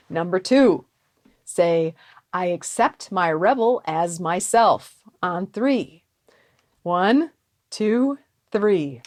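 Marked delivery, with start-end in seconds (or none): none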